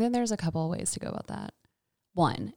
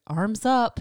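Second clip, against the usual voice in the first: therapist instruction; 3 semitones higher, 4 dB louder than usual. Retold or imitated. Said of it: "kicks into occupational therapist".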